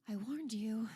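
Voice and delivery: hushed, voiceless whisper; breath-only I-told-you-so; whispered reproach. Acted. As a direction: whisper it as a knowing admonishment. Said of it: "she says to you".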